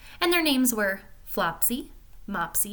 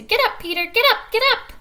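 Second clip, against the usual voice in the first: excited little birds; 13 semitones higher, 8 dB louder than usual. Acted. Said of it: "these little birds come along and tell him to".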